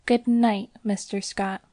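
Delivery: a candid, open farewell; frank goodnight. Acted. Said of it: "with a frank".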